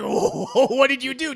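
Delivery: loud, slow, aghast demand; shocked shout. Acted. JoJo confronting Dio about the murder, shocked shout. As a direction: yell it in disbelief.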